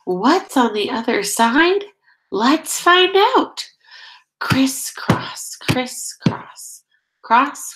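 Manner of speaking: sing-song storybook reading, steady beat; reading to children. Acted. Teacher reading a nature book to her class, sing-song. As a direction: lead the chant for little listeners. Reads picture book aloud.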